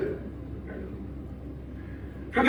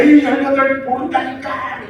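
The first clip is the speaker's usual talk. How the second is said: high, louder mock curse then 모른다니까 falling; cursing shout; 9 semitones higher, 5 dB louder than usual. Peter denying Jesus the third time, hammed-up furious shout. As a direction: bark it out like a cornered man. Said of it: "예?".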